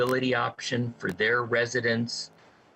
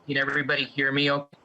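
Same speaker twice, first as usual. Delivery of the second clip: crackly cordless phone. Real, not acted. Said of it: "You're breaking, you're in and out".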